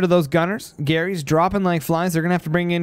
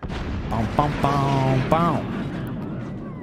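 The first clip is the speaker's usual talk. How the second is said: low, soft imitated explosions; imitated booms; 4 semitones lower, 4 dB quieter, much slower than usual. Real, not acted. Caster echoing shots as they land, low boom noises. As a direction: drop low and voice each boom under your breath.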